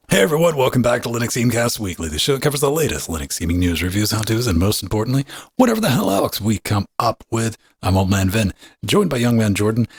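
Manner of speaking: upbeat podcast host intro; show intro. Acted. Host opening the show for listeners, lively announcer read.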